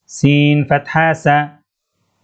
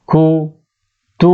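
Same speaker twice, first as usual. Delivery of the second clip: slow spelled reading; much slower than usual. Shown as a demonstration. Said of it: "وقف كتب".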